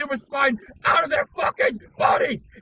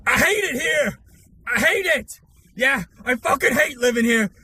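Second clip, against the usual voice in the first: shouting, swearing tirade into the camera; all-out screaming fury at the camera; furious rant; 5 semitones higher than usual. Acted. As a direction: explode with rage at the VTubers.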